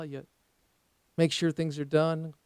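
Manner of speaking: ordinary talk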